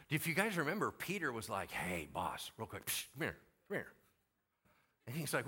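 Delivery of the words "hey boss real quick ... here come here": mock hushed aside. Peter pulls Jesus aside.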